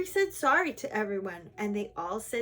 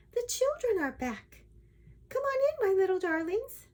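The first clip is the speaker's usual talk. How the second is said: high-pitched, delighted calling out; storybook princess crying out in delight; excited cry; 12 semitones higher, 4 dB louder than usual. A narrator's reading. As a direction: welcome them in, voice lifted high. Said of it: "she cried".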